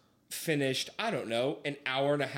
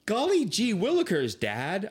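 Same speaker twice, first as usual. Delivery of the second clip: put-on gee-whiz kid; 5 semitones higher than usual. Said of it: "I literally said that".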